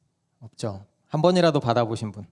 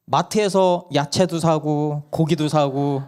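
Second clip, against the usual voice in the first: put-on child arguing; 4 semitones higher, 4 dB louder, slower than usual. Child argues with mom.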